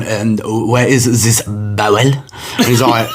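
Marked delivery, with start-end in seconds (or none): 0.0-2.0 slow, lightly put-on French accent. French policeman asking Connor the village, slow French accent. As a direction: ask it like a puzzled French cop, slowly. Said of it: "the French policeman has obviously gone".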